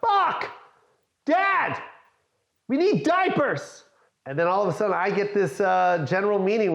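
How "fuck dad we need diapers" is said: put-on high, slow kid voice; imitating his young son, high and drawn out; little son's voice. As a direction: pipe up like a small boy tugging at dad. Son quoted asking for diapers.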